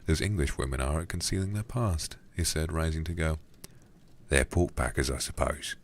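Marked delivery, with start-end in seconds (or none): 4.3-5.8 put-on Cockney accent. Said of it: "a Cockney voice for this guy".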